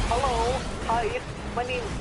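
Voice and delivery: high-pitched mock Cambodian accent; imitated Cambodian accent. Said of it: "a much more thicker fucking accent".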